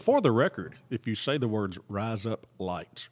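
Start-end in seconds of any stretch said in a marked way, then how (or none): 1.9-3.1 slow, careful. Shown as a demonstration. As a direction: rise up lights said slowly, word by word. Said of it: "really fast".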